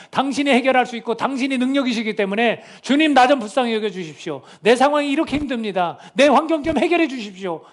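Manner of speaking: high-pitched, urgent prayer; clinging plea. Acted. Preacher models praying to the Lord in hard times, pleading. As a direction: plead as if hanging on for help. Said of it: "누구한테 매달리는 거예요".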